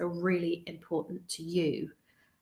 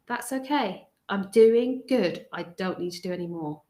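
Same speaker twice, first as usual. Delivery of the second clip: gentle self-reassurance. Shown as a demonstration. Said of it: "learning to say no to you".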